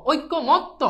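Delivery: "ঐক্যমত্ত" slowly as oi-ko-mot-to; ভাঙা উচ্চারণ. Shown as a demonstration. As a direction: spell out each syllable of "ঐক্যমত্ত". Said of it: "এটার উচ্চারণটা হচ্ছে". ("ঐক্যমত্ত" ধীরে অক্ষরে অক্ষরে)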